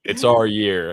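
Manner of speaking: a hint of a cowboy. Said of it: "I sound like a cowboy".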